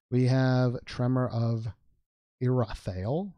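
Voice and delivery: slow southern drawl; a touch of southern accent. Pretend. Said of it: "I said that with the southern accent".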